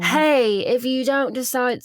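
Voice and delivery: lightly put-on British accent. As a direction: imitate a British man's accent. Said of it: "I should stop with the accent".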